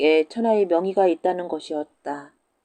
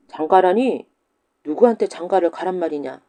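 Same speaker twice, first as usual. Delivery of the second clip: louder, falling 장가라니?; 장가라니? said louder with a firm fall; indignant; 3 dB louder than usual. Acted. Teacher repeats, indignant. (장가라니?를 크게 내리꽂듯)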